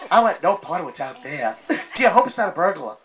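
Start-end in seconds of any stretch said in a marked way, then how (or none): 1.9-2.9 a light, fast, scared lion whimper; cowardly lion voice. Acted. Comic to the crowd, doing the scared cowardly lion. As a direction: play the cowardly lion, a touch quicker and fearful. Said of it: "That's me".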